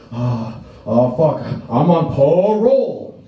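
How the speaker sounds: mock panic, drawn out; panicked Tony. Tony the Tiger realizing he is on parole, panicky. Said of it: "He's like".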